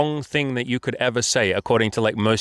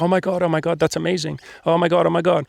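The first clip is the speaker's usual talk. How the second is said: higher-pitched imitation of an excited reaction; delighted gushing; 5 semitones higher than usual. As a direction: gush it in a raised voice, retelling her delight. Retells her delighted reaction.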